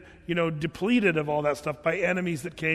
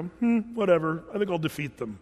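mock indifferent. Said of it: "You never see the Lord go".

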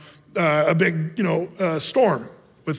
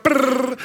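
brrr; 6 semitones higher than usual. Retold or imitated. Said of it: "sun pops out".

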